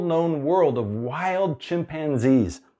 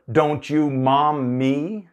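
mock scolding; 2 semitones higher, 3 dB louder, much slower than usual. Parent scolding child.

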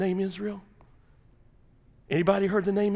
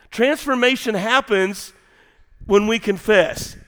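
Transformation happens when we confess spelled out slowly; slow emphatic repeat; 4 semitones higher, 4 dB louder, slower than usual. Shown as a demonstration. Preacher repeating the key point slowly to his congregation. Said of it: "slow repeat for emphasis".

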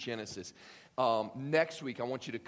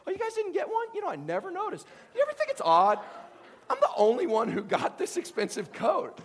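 high, loud, mocking faux-innocent taunt; smug bragging brother; 7 dB louder than usual. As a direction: gloat while pretending not to notice. Joseph taunting brothers about coat.

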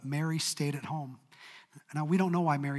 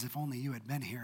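soft, lower, hushed reproach; 4 semitones lower, 9 dB quieter than usual. Acted. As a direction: quietly sigh the blame. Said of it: "in one breath".

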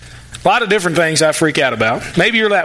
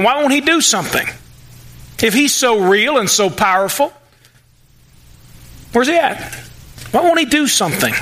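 a lightly voiced taunting skeptic, pitched up; mock taunting; 4 semitones higher than usual. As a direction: jeer at him, half-acted. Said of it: "They ask him".

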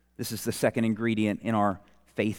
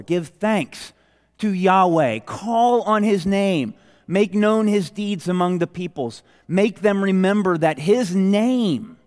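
scripture read out higher and louder; forceful preaching; 6 semitones higher, 4 dB louder than usual. Acted. Preacher booming scripture to his congregation, forceful preaching. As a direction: proclaim each word like a summons.

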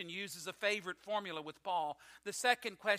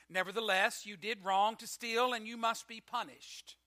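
firm, loud stern verdict; stern declaration; 3 semitones higher, 5 dB louder than usual. Acted. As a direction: lay down the punishment firmly. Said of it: "declared the teacher".

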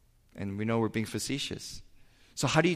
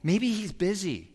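higher, teasing mock concern; taunting; 8 semitones higher than usual. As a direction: needle them: maybe your god is asleep. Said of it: "Elijah taunts them".

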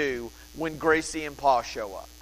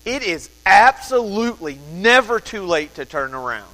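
ordinary delivery

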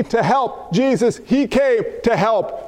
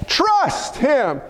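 shouted exhortation. Real, not acted. Preacher exhorting the congregation.

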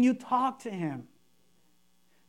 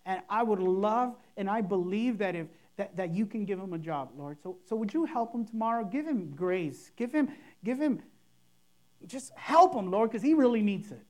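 softer, earnest plain prayer; sincere simple prayer; 3 semitones lower, 3 dB quieter than usual. Shown as a demonstration. Pastor demoing a heartfelt prayer for a jobless friend. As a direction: speak it from the heart, no fuss. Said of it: "just pray to God, sincere and simple".

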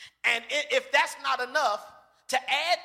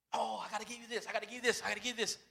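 soft God voice; 11 dB quieter, much faster than usual. Pretend. God speaking softly.

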